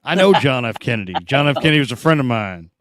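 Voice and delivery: a hint of a stately debate retort; a light mock debate comeback; Lloyd Bentsen line. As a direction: deliver it like the famous put-down, lightly. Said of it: "I gave the old, uh, Lloyd Benson".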